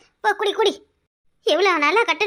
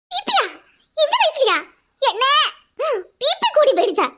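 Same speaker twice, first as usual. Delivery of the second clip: much higher, startled disbelief; shocked gasp; 5 semitones higher than usual. Acted. Sister shocked to hear of her brother's blood pressure. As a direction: jump up in pitch in shock.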